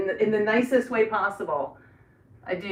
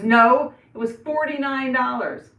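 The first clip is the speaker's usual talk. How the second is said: daughter's retort; 5 semitones higher, 8 dB louder, slower than usual. Retold or imitated. Daughter quoted correcting her.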